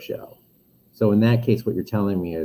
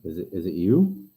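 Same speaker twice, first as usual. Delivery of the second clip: muffled. Real, not acted. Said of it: "Am, am I still muffled?".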